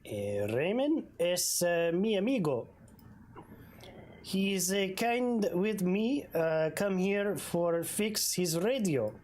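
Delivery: put-on light Spanish-accented mechanic; a hint of broken English. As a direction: Pedro calling Raymond his friend, light accent. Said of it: "giving him a weird accent".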